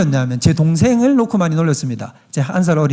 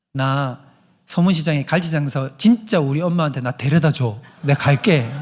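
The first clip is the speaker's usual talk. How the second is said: lightly voiced child asking earnestly; little brother; 4 semitones lower than usual. Young brother telling his mother, lightly childlike. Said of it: "뭐라고 얘기를 했냐면".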